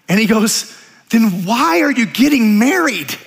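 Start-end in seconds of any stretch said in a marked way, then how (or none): 1.1-3.1 higher, slow, incredulous demand; imitated old vet. Old Vietnam vet challenging the engaged friend, mock incredulous. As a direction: lightly play an old vet, drawing out the question. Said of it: "this is old Vietnam, grizzly old Vietnam vet".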